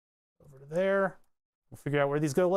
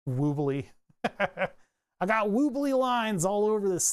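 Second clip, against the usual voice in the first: laughing at his own woobly lines; amused giggle through the words; 5 semitones higher, slower than usual. Real, not acted. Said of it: "My lines are so".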